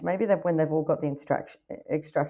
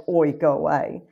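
mock deep voice; 3 semitones lower, 4 dB louder, slower than usual. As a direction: pretend gruff deep shout, slightly louder. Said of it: "say something in a really deep voice".

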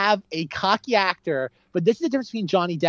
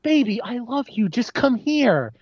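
higher, slow mock Long Island coaxing; lightly done Long Island sweet-talk; bad Long Island accent; 7 semitones higher, slower than usual. Husband coaxing his wife in a mock Long Island accent. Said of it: "doing his own, like, really horrible Long Island accent".

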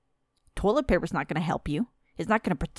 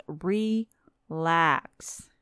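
soothing relax. Acted. Vlogger soothing panicking viewers, slow and gentle. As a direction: ease it out gently, as if to calm them. Mock soothing after the rant.

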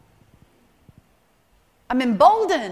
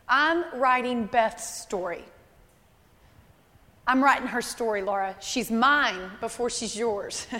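gentle voice of God. Acted. Voicing God's gentle reply.

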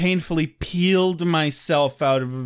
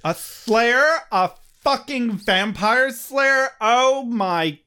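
higher, slow haughty disdain; imperious plummy grande dame; 7 semitones higher, slower than usual. Acted. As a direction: sniff down at the word slayer. Glory voiced scornfully.

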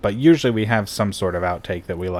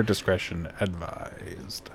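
whispering; 8 dB quieter, much slower than usual. Pretend. Mock broadcast warning.

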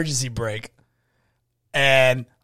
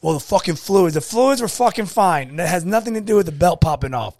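heated argument; 5 semitones higher, 4 dB louder than usual. Retold or imitated. Retold argument over blame.

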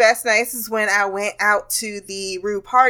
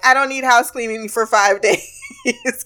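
laughing refusal; 3 semitones higher than usual. Retold or imitated. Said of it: "I will be like".

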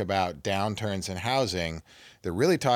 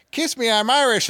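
higher, louder imitation of a tipsy reveler; mock holler, pitched up; retold crowd yell; 12 semitones higher, 6 dB louder than usual. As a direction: call it out as if running through a crowd. Brother's yell retold, father nearby.

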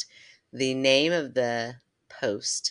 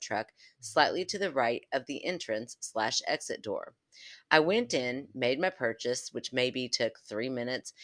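story reading. Acted.

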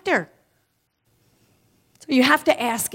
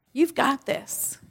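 higher, slow reassurance; inner cheerleader; 5 semitones higher, slower than usual. Pretend. Speaker voicing the higher self to the audience, slow and high. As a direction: draw it out, lifting. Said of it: "The inner cheerleader says different things".

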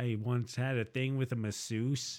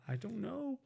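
doubtful; 11 semitones higher, 10 dB quieter than usual. Real, not acted. Doubtful reply.

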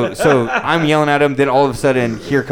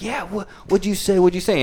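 mock challenge; 7 semitones higher, 4 dB quieter than usual. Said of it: "And he's like".

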